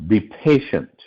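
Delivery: emphasize the word patient; patient set out with deliberate emphasis; stress on patient. Real, not acted. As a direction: lean on "patient" as the key word. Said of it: "I emphasize the word patient".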